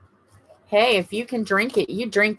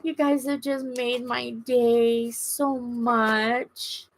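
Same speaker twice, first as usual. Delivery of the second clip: fighting tears; 4 semitones higher, 3 dB quieter, slower than usual. Real, not acted. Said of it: "I'm not gonna cry".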